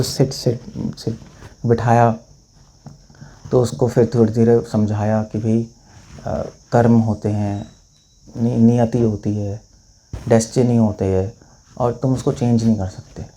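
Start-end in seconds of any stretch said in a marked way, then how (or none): 0.0-1.1 whispered sit. Retold or imitated. Calming frightened woman down. 5.4-13.3 calm counsel. Retold or imitated. Monk calmly counsels the woman.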